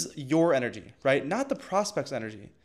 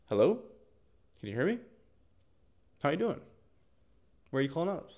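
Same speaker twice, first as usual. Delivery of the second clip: softer, draggy and bored, with long pauses; half-hearted mumbly greeting; low-energy flat opener; 3 semitones higher, 3 dB quieter, faster than usual. Shown as a demonstration. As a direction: sound like you'd rather not be on the call. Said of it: "that is so fucking lame".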